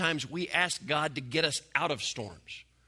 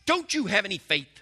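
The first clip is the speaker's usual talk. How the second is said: sharper and louder, a pointed scold; scolding rebuke; 4 semitones higher, 5 dB louder than usual. Retold or imitated. Preacher scolding the apostles in his own rebuking voice. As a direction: wag a finger as you ask it. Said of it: "I wanna say it in my voice".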